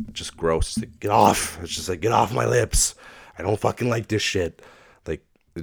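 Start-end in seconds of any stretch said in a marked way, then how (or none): 1.0-1.6 louder, higher burst of disgust; mock yell. Acting out disgust at juice. 2.0-4.6 high, loud complaint; mock disgusted yell. Acting out disgust at juice.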